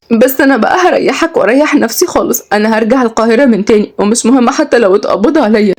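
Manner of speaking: put-on hurt young woman giving up; Kenzi, resigned. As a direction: announce leaving with mild distress.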